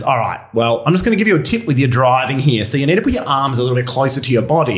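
a hint of a lecturing stranger giving a tip; know-it-all voice. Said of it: "I'm putting on this voice".

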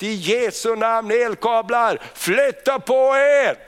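rising cry of faith, slowing at the end; retold shout. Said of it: "Jag bara ropade rakt ut bara".

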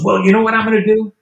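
playing the plotting collector; mock scheming friend. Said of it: "And he goes".

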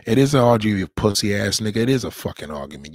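loud, contemptuous yelling; angry shout. Real, not acted. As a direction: bark it right back at him. Shouting down the man on stream.

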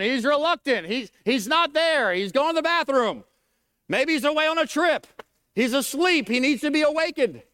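playful mock ridicule. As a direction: taunt like Elijah scoffing. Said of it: "Elijah began to mock 'em".

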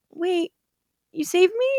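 high, surprised realization. Retold or imitated. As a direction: pitch up in disbelief. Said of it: "And Davina's like".

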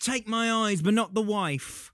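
put-on high Southern-accented plea; weird Southern accent. Man with garden tool sparing his wife, Southern accent. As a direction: plead dramatically in a hammed-up Southern accent. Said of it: "has this weird Southern accent".

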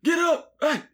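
high, loud DJ call, quickly abandoned; attempted DJ voice. Shown as a demonstration. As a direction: have a go at a club DJ shout. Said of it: "Can you talk like a D J?".

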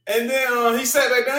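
normal talking voice

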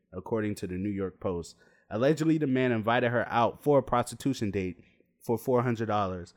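mock news anchor read; lightly played newscaster reporting a scandal. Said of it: "my newscaster voice in".

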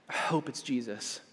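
hushed, heartfelt second take; quiet repeat. Real, not acted. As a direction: drop the voice for the repeat.

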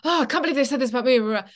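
mock rant. Teen ranting to her mother about a director's notes, fast and indignant. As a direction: rattle off a teenage grievance. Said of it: "rant to my mother".

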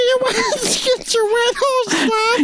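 the line breaks into laughter; barely gets it out, laughing. Real, not acted. Guest cracking up while reading aloud. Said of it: "you can't even say this shit with a straight face".

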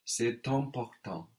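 "C'est important" linked with a sounded T; optional liaison. Shown as a demonstration. Teacher models the optional liaison for a student, "C'est important" with T linked. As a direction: run "C'est important" together, pronouncing the T before "important". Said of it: "optional but very common liaison".

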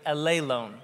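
"alelone" said a-LAY-lone; stress on second syllable. Shown as a demonstration. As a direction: model "alelone" for repeating, accent on LAY. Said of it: "Say that with me".

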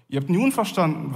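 nun stressed with a falling tone. Shown as a demonstration. Preacher repeating Paul, stressing nun. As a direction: press on nun. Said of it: "Die Betonung liegt auf dem".

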